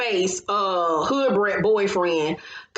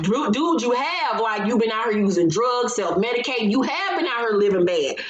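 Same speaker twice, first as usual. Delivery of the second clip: incredulous rebuke; 3 semitones higher than usual. Retold or imitated. Talking back at Trick's denial, exasperated rebuke. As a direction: call him out, pitch raised.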